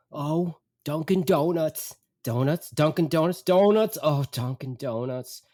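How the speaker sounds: slow, imitated mother marvelling at a sign; lightly voiced mom repeating herself like a small animal; repetitive mother. Mother spotting a Dunkin' Donuts, mindlessly repetitive. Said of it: "She just repeats the phrase like a small animal".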